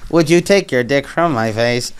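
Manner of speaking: flat mock robot voice; lightly imitating a speech-synthesizer voice. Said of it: "they speak like that".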